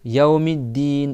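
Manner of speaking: "Yaomiddin" spoken slowly with the double d held; slow careful pronunciation. Shown as a demonstration. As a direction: stretch "Yaomiddin" syllable by syllable. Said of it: "et là t'as deux D".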